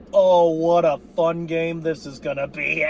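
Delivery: laughing through a sarcastic line; laughing gloat. Real, not acted. Fan gloating to viewers over the Cowboys' blunder, laughing. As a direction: chuckle it out, savoring the rival's pick six.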